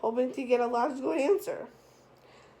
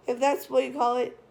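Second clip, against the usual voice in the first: sarcastic. Acted. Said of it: "T J said in a sarcastic tone".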